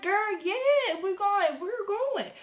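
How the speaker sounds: put-on high, loud, eager girl yeah; thrilled, can't wait to go; bubbly triumphant agreement; excited yes. Excited to accept the invite.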